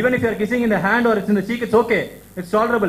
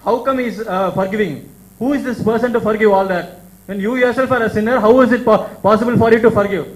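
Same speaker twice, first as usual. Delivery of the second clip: rising to a loud, incredulous challenge; indignant question; 4 dB louder than usual. Retold or imitated. Crowd member questions his right to forgive, rising loud indignation. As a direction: build to a loud demand. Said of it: "In that accent, that person is asking".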